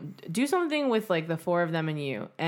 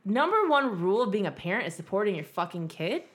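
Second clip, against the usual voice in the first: lecturing parents; 2 semitones higher than usual. Pretend. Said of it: "Be like".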